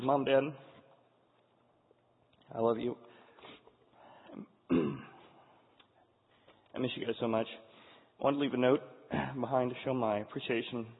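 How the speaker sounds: halting read with long, choked pauses; holding back tears. Real, not acted. Father reading his daughter's note to her parents, holding back tears. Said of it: "it makes me cry".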